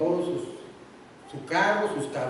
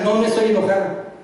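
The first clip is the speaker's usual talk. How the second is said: sulky wife; 4 semitones higher, 6 dB louder than usual. Acted. Wife denying she is angry.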